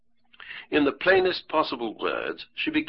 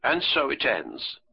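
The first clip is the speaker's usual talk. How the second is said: bitter; 3 semitones higher than usual. Acted. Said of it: "she said to herself bitterly".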